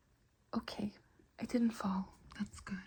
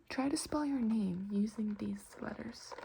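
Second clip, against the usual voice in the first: whisper. Acted.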